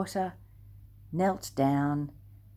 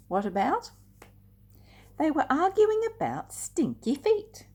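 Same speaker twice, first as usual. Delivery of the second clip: higher, louder, teasing the answer; spring the funny reveal on the kids; playful build-up; 11 semitones higher, 6 dB louder than usual. A narrator's reading. Teasing children with the stinky feet reveal, playful.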